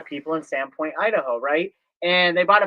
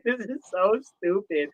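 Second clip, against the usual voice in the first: laughing exasperation; 3 semitones higher, 3 dB quieter, slower than usual. Retold or imitated. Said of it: "I'm just laughs like".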